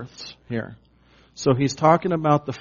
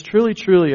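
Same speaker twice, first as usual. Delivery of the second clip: both TRULY hit hard, higher and louder; emphatic truly, truly; 5 semitones higher, 7 dB louder than usual. Shown as a demonstration. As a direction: punch each truly like a command. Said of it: "are, like, emphatic".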